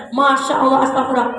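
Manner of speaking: hammed-up gasp of wonder; mock amazement. Wife pretending amazement at husband's phone, mock wonder.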